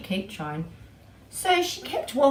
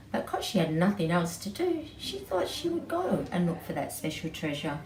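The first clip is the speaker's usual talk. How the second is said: lively read-aloud storybook voice; storytelling to children. A narrator's reading. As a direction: tell it to a small child, animated.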